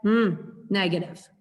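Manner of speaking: disapproving hum and word; understated disapproval; negative tone. Shown as a demonstration. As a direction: sound unhappy without yelling. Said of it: "It's a tone that says".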